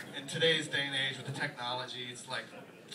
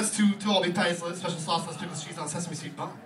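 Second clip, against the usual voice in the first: loud rattled-off jingle recital; reciting cashier; 4 semitones higher, 4 dB louder than usual. Retold or imitated. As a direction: recite it like a menu ad. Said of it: "the guy's like".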